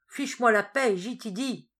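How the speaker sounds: loud, growled brush-off; a grumpy patient telling the doctor off; angry grumble. Acted. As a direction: shove them away with the voice. Wounded soldier snaps at doctors.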